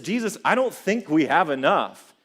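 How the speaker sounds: lightly acted clueless worry; a hint of a hapless disciple. Preacher mimicking disciples doubting Jesus, clueless. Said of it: "They're clueless".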